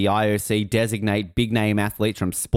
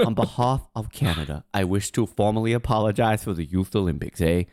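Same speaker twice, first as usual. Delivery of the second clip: Justin Trudeau impression; 3 semitones lower than usual. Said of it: "Like, Justin Trudeau".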